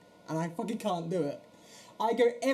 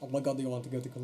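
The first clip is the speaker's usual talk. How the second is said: quick, lower mock Portuguese accent; 5 semitones lower, faster than usual. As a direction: repeat it fast in a put-on Portuguese accent. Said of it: "need to do a Portuguese accent".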